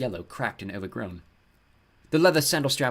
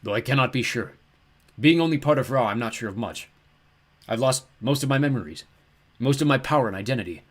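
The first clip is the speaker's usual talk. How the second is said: big, mournful giant's voice; melancholy ram god; 3 semitones higher, 6 dB louder than usual. A narrator's reading. Ram god confesses lost memories, melancholy. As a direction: lament lost powers as a forlorn god.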